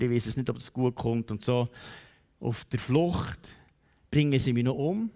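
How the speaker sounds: weary, understated lament; beaten-dog dejection. Acted. Jacob on the run fearing his brother, dejected. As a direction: sigh it out like someone worn down. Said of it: "so wie ein abgeschlagener Hund und sagt".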